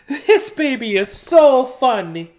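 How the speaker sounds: high, slow cooing mother's voice; cooing over her baby, high and slow; doting mother. Acted. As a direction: coo it like a delighted mother. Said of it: "She said".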